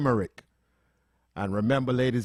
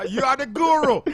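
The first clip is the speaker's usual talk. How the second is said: laughing protest; 9 semitones higher, 8 dB louder than usual. Real, not acted. Host laughing, pushing producer to go first.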